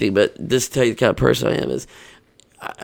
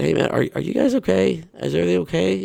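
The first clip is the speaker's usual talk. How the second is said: calling out concerned; 5 semitones higher than usual. Retold or imitated. Calling out to homeless man.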